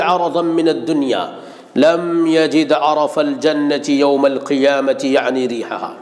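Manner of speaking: rapid, hushed Arabic recital of the hadith; hadith recitation. Acted. Preacher quoting the Prophet to the huffaz, in a rapid recital. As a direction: rattle off the memorized Arabic quote.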